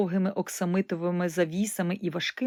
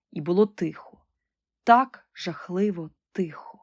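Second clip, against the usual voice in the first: dreadful hush. A narrator's reading. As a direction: whisper the dreadful silence. Narrator hushes for dread. (моторошний шепіт)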